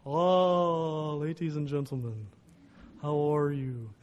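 put-on big, drawn-out old professor voice; Dutch professor's big slow voice. Imitating his old professor greeting a class, big and slow. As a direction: stretch the words out ponderously. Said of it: "big, slow voice".

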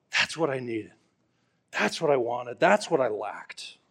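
a touch of relief, soft and sighing; lightly voiced woman finally satisfied; relieved joy. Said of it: "imagine the joy when she finally met Jesus".

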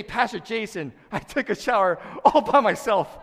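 high, loud, laughing brag about a shower; mock proud grown man. Pastor imitating a grown man bragging to him, laughing. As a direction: crow it like a man-child, laughing. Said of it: "and you say".

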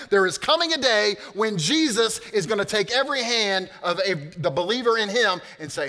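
loud, high, driving sermon voice; full-force preaching. Acted. Pastor rousing the congregation, loud preaching. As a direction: preach it out to the back row.

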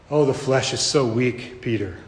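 softly sorrowful, falling away low on the name; gentle lament. Acted. Jesus telling Peter his flesh is weak, gentle lament. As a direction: sigh it kindly to a failing friend.

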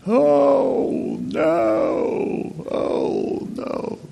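high cry falling to a breathy moan; mock panic. Pastor shows what to say going down, mock panicked cry. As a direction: cry out then fade as the car plunges. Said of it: "that thing to say".

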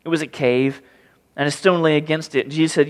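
ordinary talk

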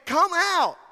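loud, high commanding call; Jesus shouting into the tomb; Jesus hollering. Retold or imitated. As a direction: call the dead man out of the tomb. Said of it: "Jesus hollering to the tomb".

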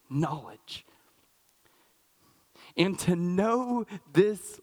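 slow, emphatic Bible reading with pauses; deliberate, weighty verse reading; scripture reading. Acted. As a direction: draw out the key words of the prayer. Reads Paul's prayer aloud.

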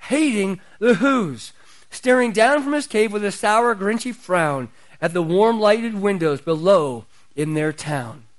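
lightly performed storybook narration; a hint of theatrical story reading; Boris Karloff. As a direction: recite the rhyme like a TV special narrator. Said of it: "he would start reading this".

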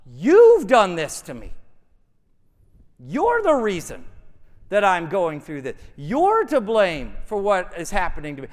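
accusing cry, punching "You've" loud; emphatic protest of innocence; blaming God. Acted. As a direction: throw the blame straight at God. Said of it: "the worshiper begins to blame God".

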